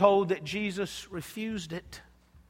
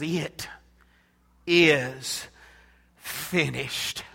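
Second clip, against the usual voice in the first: faint last words; 6 semitones lower, much slower than usual. Acted. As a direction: let each word fall with the last breath.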